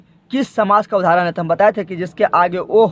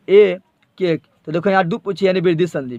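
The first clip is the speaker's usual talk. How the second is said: normal talking voice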